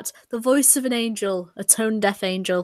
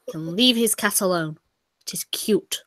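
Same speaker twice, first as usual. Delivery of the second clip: whispering; 2 semitones lower, 5 dB quieter than usual. Real, not acted. Aside about the cat.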